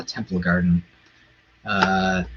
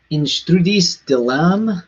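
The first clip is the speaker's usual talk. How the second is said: mock French; 5 semitones higher, slower than usual. Shown as a demonstration. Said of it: "I can't even speak this way".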